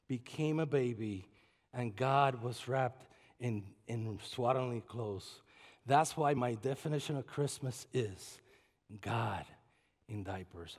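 low, soft and slow; hushed preaching. Acted. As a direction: drop to a reverent hush. Hushed sermon close.

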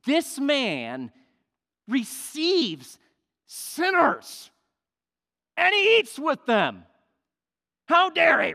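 outraged mockery of the self-righteous; indignant Pharisees. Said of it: "began to grumble, saying".

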